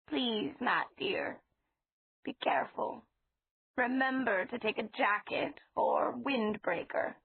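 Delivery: a hint of an anxious grandmotherly voice; old lady, fretful. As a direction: gently fret over him like a fond elderly landlady. Mrs Flowers voiced in story.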